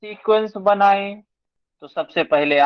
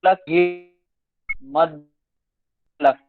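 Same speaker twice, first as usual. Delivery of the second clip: call dropping out; much faster than usual. Real, not acted. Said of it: "अभी भी break हो रही है".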